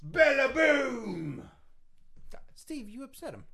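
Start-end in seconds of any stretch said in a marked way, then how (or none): 0.0-1.4 slow, high, loud bellowed catchphrase; wrestler catchphrase shout. Pretend. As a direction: roar it like a heel in the ring. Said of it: "when he says Bella Boom".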